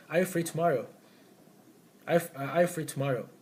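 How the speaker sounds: "Are you free tomorrow?" falling at the end; falling question. Shown as a demonstration. Teacher asking when the answer is known, falling. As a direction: ask as if you know the answer. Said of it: "following intonation".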